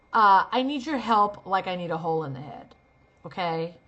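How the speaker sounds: dismissive dry sarcasm; sarcastic. Shown as a demonstration. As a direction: scoff through the line. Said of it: "What if you don't need their help at all?".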